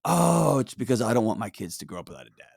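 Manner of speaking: low, soft self-admission; quiet realization. Acted. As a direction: drop low and soft as it dawns on you. Acts out quiet realization, absent dad.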